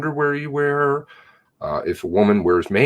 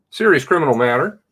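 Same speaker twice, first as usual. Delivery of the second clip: sarcastic quote; 4 semitones higher, faster than usual. Retold or imitated. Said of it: "this is what they call it".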